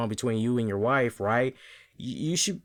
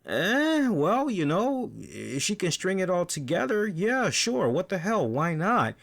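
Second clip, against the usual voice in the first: higher, mock reluctant go-ahead; grudging shrug; 4 semitones higher than usual. Fans hearing Lana will wrestle, grudging higher shrug. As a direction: shrug it off like you barely care.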